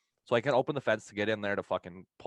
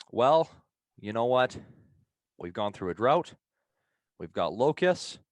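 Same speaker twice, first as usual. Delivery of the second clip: mock doom preacher, building higher and louder; quoting an end-times customer; 6 semitones higher, 5 dB louder than usual. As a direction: ham up the rapture warning as it swells. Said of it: "as one of my customers at work so eloquently put it".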